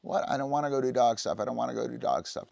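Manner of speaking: high, fast protesting dog voice; mock offended dog; indignant dog. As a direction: whine like a dog that won't leave. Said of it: "now the dog is like".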